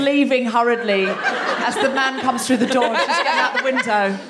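giggling through the words; laughing while talking. Real, not acted. Comic acted-out scenario.

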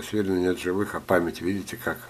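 ordinary delivery

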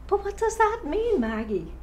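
worried, pleading question pitched high. Acted. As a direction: ask it with rising alarm, then drop on the name. Anguished question to Maggie in monologue.

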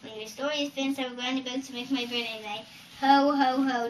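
hint of a gloating giant; lightly voiced threatening giant. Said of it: "the giant squeezed Jack and said".

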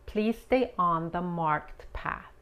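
slow, even "Please stay on the marked path."; slow natural repeat of the sentence; slow model. Shown as a demonstration. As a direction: say it slow and smooth. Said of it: "repeated model".

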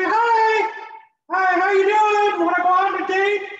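very high squeaky falsetto; hammed-up mouse-voiced date request. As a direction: squeak out a pickup line. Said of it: "I sound like Minnie Mouse".

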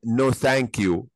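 slow, carefully spelled-out no thank you; slow demo. Shown as a demonstration. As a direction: say "no thank you" slowly, word by word for the class. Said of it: "يبقى أقدر أقول لها هنا". (ببطء وبوضوح)

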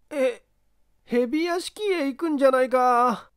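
high puzzled question. Acted. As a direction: ask in surprise. Kinkou puzzled.

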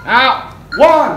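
barking count. Shown as a demonstration. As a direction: bark out the count like a drill sergeant. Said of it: "Thầy đừng có dở cái giọng đấy mà".

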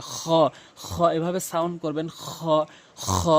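"খ" scraped from the back of the throat; rasped fricative "খ", each said separately; deep-throat kh. Shown as a demonstration. Teacher showing learners the sound, scraped "খ". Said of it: "হলকের শেষ থেকে উচ্চারণ হয়".

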